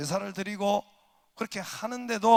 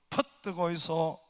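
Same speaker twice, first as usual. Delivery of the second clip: slow Gyeongsang accent; a hint of Gyeongsang drawl, slowly; lightly voiced Gyeongsang dialect; slower than usual. Shown as a demonstration. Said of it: "경상도".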